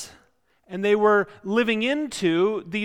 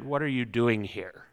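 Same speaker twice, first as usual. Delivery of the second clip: stern haberdasher; 8 semitones lower, 6 dB quieter than usual. Retold or imitated. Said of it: "that stern haberdasher from Are You Being Served".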